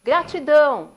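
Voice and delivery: high, loud single word; father calling to the mountains. Retold or imitated. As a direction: call out gratitude across the valley. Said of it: "e fala".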